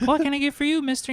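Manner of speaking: imitated young kid, pitched very high; mock high-voiced young waiter; teenage server. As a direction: put on an eager kid's high voice. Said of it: "some, like, eighteen-year-old kid".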